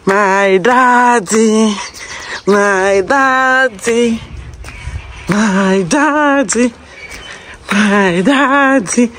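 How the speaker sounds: slow, long drawn-out calls of daddy; drawn-out calling. Real, not acted. Daughter at her father's house, calling to him, slow and drawn out.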